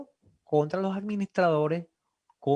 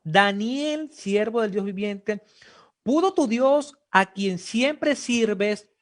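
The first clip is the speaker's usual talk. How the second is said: louder pleading call, last words very slow; king's shout; 3 semitones higher, 3 dB louder, slower than usual. Acted. King shouting from afar to Daniel in the den, anxious and loud. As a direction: call out across the distance, anxious.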